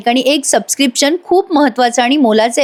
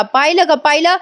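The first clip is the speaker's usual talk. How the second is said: deliberate yelling, retold; 5 semitones higher than usual. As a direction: imitate an aunt raising a cry for witnesses. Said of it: "ती आत्या मुद्दाम ओरडत असते". (मुद्दाम ओरडण्याची उंच स्वरातली नक्कल)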